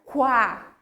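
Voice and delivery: quá as kwa, u heard; every letter sounded. Shown as a demonstration. Teacher showing Q, U and A together, every letter pronounced. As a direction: say quá with a clear w glide. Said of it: "Vou pronunciar todas as letras".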